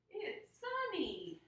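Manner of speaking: P=A; sing-song repeat. Acted. Teacher repeats weather for kids.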